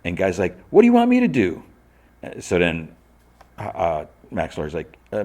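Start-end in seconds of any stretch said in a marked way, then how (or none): 0.7-1.6 very high, loud protest; hammed-up exasperated whine; exasperated defence. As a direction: squeal it helplessly in self-defence. Guy defends himself in quarrel.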